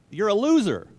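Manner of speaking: laughing, high and loud jab; mocking laugh. Kids mocking a wishy-washy parent, loud and laughing. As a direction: laugh it out as a taunt.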